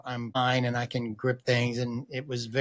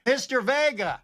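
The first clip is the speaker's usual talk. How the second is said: higher-pitched call of a nurse's voice; nurse on phone; 9 semitones higher than usual. Retold or imitated. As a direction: hail the patient by phone as the nurse. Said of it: "nurse on the phone".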